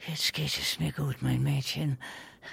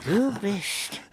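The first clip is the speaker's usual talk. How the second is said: menacing; 5 semitones lower than usual. Acted. Old man threatening the gunman.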